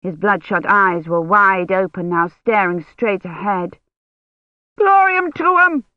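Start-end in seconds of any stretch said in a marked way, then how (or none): 4.8-5.8 high, slow bellow almost a scream; a drawn-out Latin cry, near a scream; strange high bellow. A narrator's reading. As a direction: bellow it out like a feverish priest gone wild. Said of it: "he bellowed in a strange, high voice that was almost a scream".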